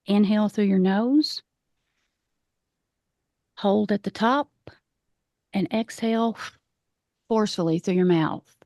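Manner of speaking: calm meditation guide with long pauses; guided meditation. Acted. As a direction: lead the breathing gently, leaving space between phrases. Leads a grounding meditation.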